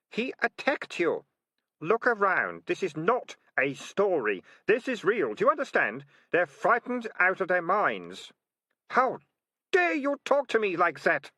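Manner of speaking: high, loud argument; shouting. A narrator's reading. Keith and Militia shouting at each other over the rats. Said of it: "Militia shouted".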